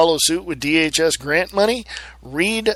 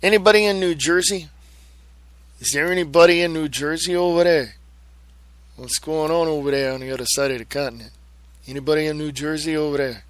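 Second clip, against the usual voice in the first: put-on New York accent, calling out; faster than usual. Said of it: "I know I sound like from, I'm from New York".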